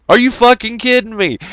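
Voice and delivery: squeaky disbelieving repeat; exasperated disbelief. Retold or imitated. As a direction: throw the repeat up high, incredulous. Repeated with pitch jump.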